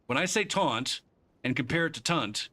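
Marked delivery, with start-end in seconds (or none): 0.4-1.0 "taunt" said slowly with an open aw vowel, like "tawnt"; careful taunt. Shown as a demonstration. Showing a friend the aw sound in "taunt". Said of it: "can you hear me say the difference between taunt and tunt". 2.0-2.5 "tunt" said with a short uh vowel, rhyming with "hunt"; careful tunt. Shown as a demonstration. Showing a friend the uh sound in "tunt". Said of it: "can you hear me say the difference between taunt and tunt".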